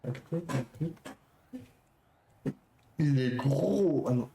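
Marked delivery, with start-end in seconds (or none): 3.0-4.0 slow, with a deliberate lisp; slushy lisp. Shown as a demonstration. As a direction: push the s-sounds through the tongue. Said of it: "j'arrive pas à dire il est gros avec un cheveu sur la langue".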